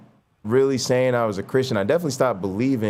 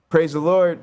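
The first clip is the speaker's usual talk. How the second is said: a hint of a churchy grandma, higher; grandma answering phone; 5 semitones higher, 3 dB louder than usual. Grandma picking up the phone, lightly voiced church greeting. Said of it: "that's how they talk".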